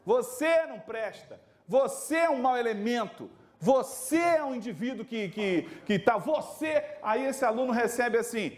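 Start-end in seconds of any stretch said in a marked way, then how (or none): 0.0-6.8 slow condemning lecture, punching você; harsh teacher. Retold or imitated. Harsh teacher condemns a pupil: slow mock scorn, você stressed. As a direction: write the pupil off slowly. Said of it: "Diferente de um professor que diz assim".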